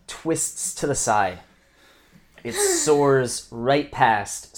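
slow, building scene narration; dramatic narration. A narrator's reading. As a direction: paint the missed shot slowly. GM narrates the missed bolt.

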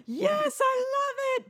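very high, gushing crowd reaction; mock enthusiasm. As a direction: squeal it like an adoring audience. Mimics enthusiastic English audience reaction.

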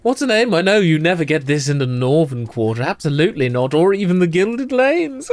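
lightly voiced, hushed gossiping ladies; a hint of two scheming sisters telling a tale; conspiratorial twins. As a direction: lean in and share a secret. GM voicing the twins.

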